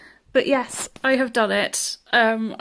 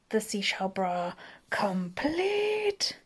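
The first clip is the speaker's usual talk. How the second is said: whisper; 5 dB quieter, much slower than usual. Real, not acted. Whispered aside while crafting.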